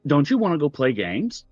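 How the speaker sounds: put-on small creepy child voice; a tiny voice luring them to play; little voice. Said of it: "you hear a little voice say".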